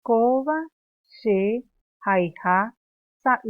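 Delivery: slow, loud, word by word; slow drill. Shown as a demonstration. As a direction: chant it slowly for the class. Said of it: "Repetimos nuevamente".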